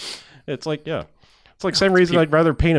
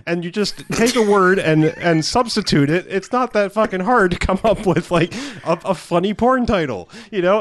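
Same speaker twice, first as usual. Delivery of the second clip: exasperated rant; 6 semitones higher than usual. Retold or imitated. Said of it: "I was like".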